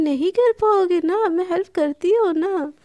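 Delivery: light teasing sing-song; naughty teasing. Acted. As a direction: coax them with mischief. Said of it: "naughty naughty mood में होती है".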